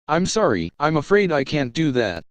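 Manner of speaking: calm HAL-like computer voice; unhurried polite AI, eerily calm; calm ship computer. Acted.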